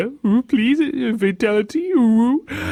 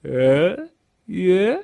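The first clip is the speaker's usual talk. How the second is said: feeble encouragement; 5 semitones higher, much slower than usual. Retold or imitated. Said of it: "when you try to encourage him with".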